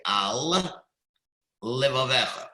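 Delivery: "Al" set apart, a clear pause before "levavecha"; over-emphasized gap after "Al"; exaggerated break between words. Shown as a demonstration. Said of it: "you have to leave space".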